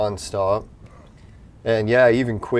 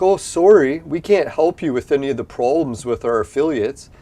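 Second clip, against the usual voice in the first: mock customer service; 3 semitones higher, 4 dB louder than usual. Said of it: "They're like".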